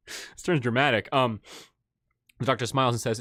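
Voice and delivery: usual speaking voice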